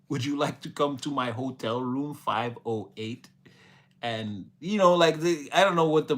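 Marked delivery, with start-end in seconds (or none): 0.1-3.3 politely measured formal invitation; mock structured speech. Educated person inviting someone to a hotel room, mock-formal. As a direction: lightly play a very proper, educated seducer. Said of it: "They'll be more like".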